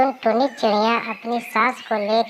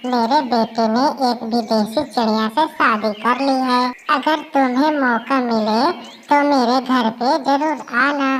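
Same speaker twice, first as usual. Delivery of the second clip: lightly voiced parrot; 3 semitones higher than usual. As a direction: bubbly parrot neighbour. Parrot friend visits.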